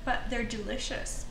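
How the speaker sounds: chewing while talking; words round a bite; mouth full. Real, not acted. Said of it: "Not polite to talk with your mouth full".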